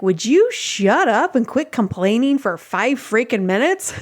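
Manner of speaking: mildly exasperated retold outburst; retold frustration. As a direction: act out being fed up with a complainer. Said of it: "I got so frustrated".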